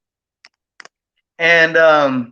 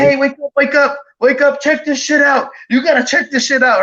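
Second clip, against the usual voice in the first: higher-pitched retold urgency; urgent waking call; 6 semitones higher than usual. Man retells waking his younger brother, urgent. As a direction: rouse a sleeper excitedly.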